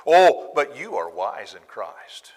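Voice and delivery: slow, loud sneering praise; drawn-out mock compliment; sarcastic. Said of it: "here comes some more sarcasm".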